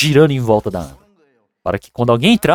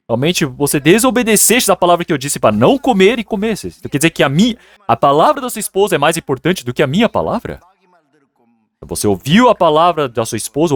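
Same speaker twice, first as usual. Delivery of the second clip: higher, indignant acted reproach; stern divine rebuke; 5 semitones higher than usual. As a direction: scold as an offended God. God rebukes Adam for disobeying.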